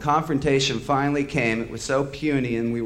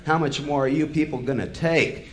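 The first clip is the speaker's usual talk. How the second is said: angry challenge; 3 semitones higher than usual. Retold or imitated. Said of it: "he roared".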